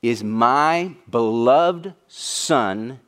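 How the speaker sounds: very slow, solemn voice from the heavens. Acted. God speaking from heaven over his Son, slow and solemn. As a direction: let each word fall slowly and gravely. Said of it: "a voice comes out of the heavens and says".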